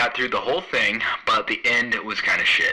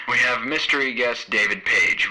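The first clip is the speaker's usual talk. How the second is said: bartender character voice; 3 semitones higher than usual. Shown as a demonstration. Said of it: "That's probably how I'll say that".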